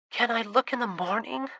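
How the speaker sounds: face-down, words softened into a pillow; muffled by a pillow. A narrator's reading. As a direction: talk into the pillow, drowsy and muffled. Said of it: "her voice muffled by the pillow".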